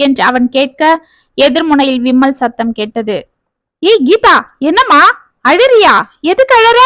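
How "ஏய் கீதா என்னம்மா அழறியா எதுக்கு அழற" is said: rising panic on every question; panicked. Acted. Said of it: "என்று பதறினான் கார்த்திக்". (பதற்றத்துடன், உயர்ந்த குரலில்)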